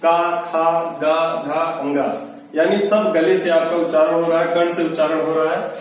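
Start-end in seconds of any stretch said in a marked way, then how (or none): 0.0-2.0 का खा गा घा अंगा each sound drawn from the throat, clear and separate; throat consonants demo. Shown as a demonstration. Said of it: "इसको आप कंठ से यानी गले से".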